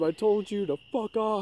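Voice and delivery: high, loud, slow yell; screaming. Retold or imitated. Leaning out the car to yell at the armadillo, slow loud scream. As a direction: drag out each word at the armadillo. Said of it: "I lean out the window and scream".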